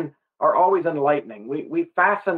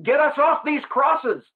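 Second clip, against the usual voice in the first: full-scale panic; 9 semitones higher than usual. Retold or imitated. Preacher voicing the dying thief's fear, panicked. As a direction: beg off the cross in desperation. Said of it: "He is in full-scale panic".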